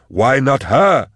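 slow, high-pitched wail; terrified cry. A narrator's reading. Fleeing man in terror, high drawn-out cry. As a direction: cry it out high, stretching each word. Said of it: "he cried".

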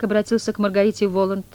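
ordinary delivery, nothing marked

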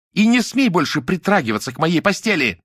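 high, loud furious cry; rising to a shout. A narrator's reading. Lyuda forbids Nadya to touch her bed, high shout. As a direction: let the voice fly up into a scream. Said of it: "Её голос взлетел до крика".

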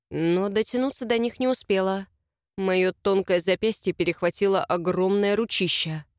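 ordinary delivery, nothing marked

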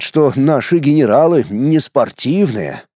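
ordinary delivery, nothing marked

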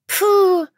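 sharp high dismissive snort; young girl's mocking snort. A narrator's reading. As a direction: puff out a scornful snort. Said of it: "фыркнула отрада".

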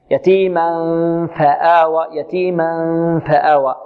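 slow يتيما فآوى, humming through the nose before ف; ikhfa with ghunnah. Shown as a demonstration. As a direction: hide the n of يتيما into a nasal hum shaped for ف. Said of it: "من الغنة". (إخفاء بغنة في يتيما فآوى)

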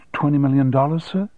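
hopeful rising question. Acted. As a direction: ask it with eager hope. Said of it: "and said hopefully".

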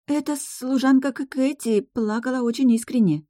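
put-on a timid spirit girl speaking gently in her head; Gloria's soft voice. A narrator's reading. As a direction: lift way up into a timid young girl. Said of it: "прозвучал тихий голос Глории".

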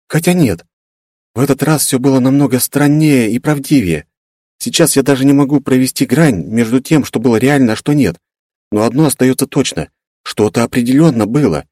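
put-on a girl recounting something strange; young woman character. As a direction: voice Veta thoughtful and unsure. Veta's voice held.

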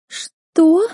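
high, sharp fake gasp of surprise; theatrical astonished cry; mock shock. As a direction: fake being stunned. Chloe feigns choking shock.

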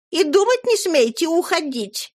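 high, fluttery chatter; gushing lady. Acted. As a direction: gush like a flustered old flame. Flora stops Arthur leaving.

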